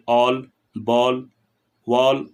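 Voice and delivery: "all, ball, wall" with rounded lips, like an o; o-like vowel in "all, ball, wall", each word set apart. Shown as a demonstration. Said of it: "होठ अधिक गोला हो जाता है".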